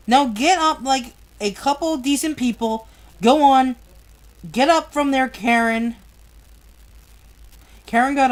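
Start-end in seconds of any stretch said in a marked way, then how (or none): 0.1-6.0 angry father's order. Acted. Father orders Karen up from the sofa, angrily.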